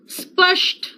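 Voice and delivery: स्पष्ट said with a clear retroflex ष, spəʂʈ; correct Hindi pronunciation. Shown as a demonstration. Teacher shows pupils the right way: स्पष्ट with ष sound. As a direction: model स्पष्ट carefully for the class. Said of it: "अगर आप सही pronunciation करोगे".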